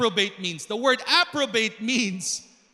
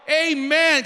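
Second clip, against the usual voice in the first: loud, higher, drawn-out amen; rousing amen; 4 semitones higher, 6 dB louder than usual. Real, not acted. Preacher prompts congregation for a convincing response, rousing amen. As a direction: push the congregation to answer with conviction. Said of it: "not convincing".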